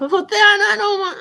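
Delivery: laughing through the words; real laughter at a chat comment. Real, not acted. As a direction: crack up while saying it.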